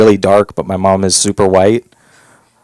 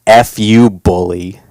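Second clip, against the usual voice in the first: incredulous; slower than usual. Acted. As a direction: repeat it as if you can't believe it. Incredulous repeat of the billboard.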